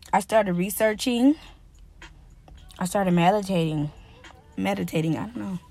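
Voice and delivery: talking with gum in mouth; chewing gum. Real, not acted. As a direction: chew gum while you talk. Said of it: "I got this gum in my mouth".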